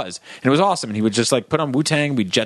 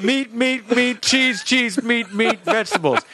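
higher, eager rattling off of meats; own greedy order; 9 semitones higher, slower than usual. Retold or imitated. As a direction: list the meats like a hungry kid. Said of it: "I'd be like".

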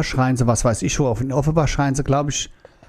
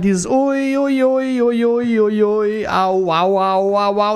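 imitated ui au cries; 5 semitones higher, much slower than usual. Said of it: "da haben die ein Lied draus gemacht".

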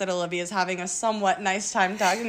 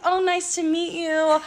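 polite introduction; 4 semitones higher, slower than usual. Retold or imitated. Re-enacts polite introduction to the man.

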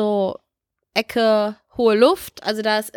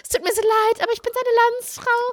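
high, pleading apology; high, pleading mock apology; groveling apology; 11 semitones higher than usual. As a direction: beg forgiveness in a high voice. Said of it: "und dann hab ich gesagt".

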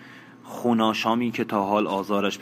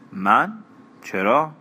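surprised; 4 semitones higher, 4 dB louder, much slower than usual. Acted. Taken aback by his remark.

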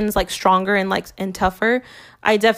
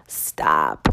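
side-eye meme. Retold or imitated. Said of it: "like, that black meme".

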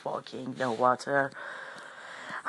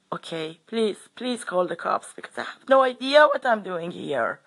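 retold desperate plea; 6 semitones higher than usual. Confused stranger begging the bloke to call the cops, pleading. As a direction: imitate begging for help.

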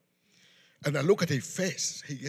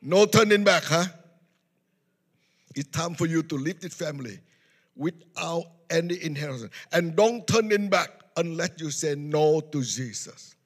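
furious grandfather; 7 dB louder than usual. Retold or imitated. Grandfather disowning grandson, loud furious shout. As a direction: throw him out in a rage. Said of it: "He was so mad".

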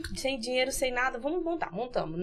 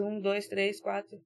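counting with a pen in the mouth; pen in teeth; 4 dB quieter, slower than usual. Shown as a demonstration. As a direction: talk around a pen held in teeth. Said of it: "Coloca a caneta na boca".

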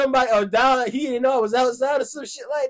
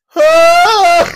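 loud, high startled huh; half-awake startled yelp; 7 semitones higher, 12 dB louder than usual. Retold or imitated. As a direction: jolt awake confused. Reenacts startled waking.

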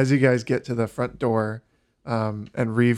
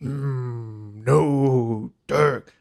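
orc voice; much slower than usual. Acted. Orc voice continues.

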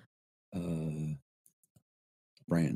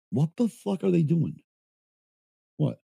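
baffled listener; 5 semitones higher than usual. Retold or imitated. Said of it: "you're going".

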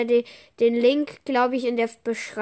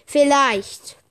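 vielleicht louder, with a firm falling tune; stressed vielleicht; 4 semitones higher, 8 dB louder than usual. Shown as a demonstration. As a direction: insist on vielleicht. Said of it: "ich sage vielleicht".

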